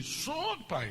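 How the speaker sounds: a high, light son's voice; son's high answer. Retold or imitated. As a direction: answer your father in a high voice. Son answers father.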